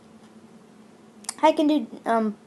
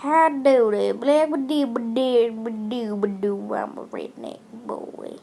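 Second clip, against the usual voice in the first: hammed-up redneck accent with nonsense babble; mock Western accent. Vlogger showing off impressions, joking Western redneck accent. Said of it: "I can do a Western accent".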